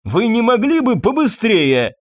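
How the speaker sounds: high, impatient call; pressing someone to hurry; shouting. A narrator's reading. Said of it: "крикнул Юбер".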